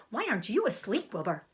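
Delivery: a chatty mother goose. Acted. Goose asks Wilbur.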